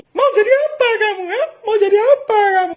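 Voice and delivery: yelling parent. Retold or imitated. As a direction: scream it like a furious hammed-up parent. Parent yelling over bad grades.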